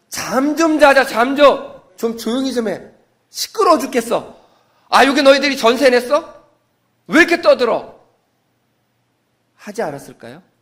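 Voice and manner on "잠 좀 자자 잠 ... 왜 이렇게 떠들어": loud, annoyed, fed-up, irritated grumbling, pitched up. Acting out what the prisoners might have said: imitating annoyed prisoners complaining. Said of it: "뭐라고 그랬을까요?".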